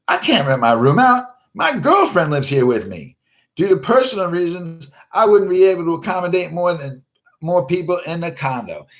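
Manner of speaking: high, loud put-on voice; mock high reply. Host replying to a pushy fan, high and mocking. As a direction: read the reply high and prissy.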